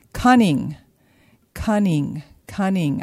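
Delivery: each cunning pressed with a falling tune, the first one loudest; Cunning, cunning, cunning hammered home one by one; stressing cunning. Real, not acted. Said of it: "I cannot not stress that word".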